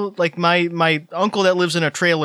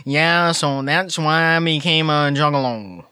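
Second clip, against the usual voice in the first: slow, dopey mock voice; lightly voiced dim-witted guy; a hint of a dopey interviewee; imitating Vince; slower than usual. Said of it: "he's like".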